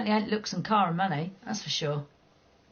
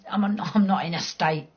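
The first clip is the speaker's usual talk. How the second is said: normal talking voice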